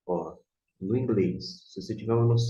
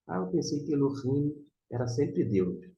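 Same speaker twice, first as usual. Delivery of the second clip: higher-pitched student's objection; imagined student; 6 semitones higher than usual. Acted. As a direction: voice a learner's mistaken assumption, pitched up. Voices a surprised student's objection.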